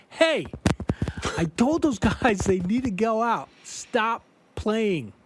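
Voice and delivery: calling out over the band to stop; retold yell. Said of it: "I'm yelling at them".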